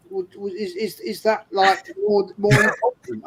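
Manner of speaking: retold wifely disbelief, halting and high; imitated doubtful wife. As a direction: stammer out a doubting question as the wife. Voicing his wife's doubting question.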